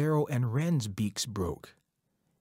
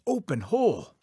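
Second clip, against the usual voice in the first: higher, firmer call; a little louder; 5 semitones higher, 4 dB louder than usual. A narrator's reading. Coyote ordering the hole that didn't open, a little louder. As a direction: raise the voice a notch. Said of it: "said a little louder".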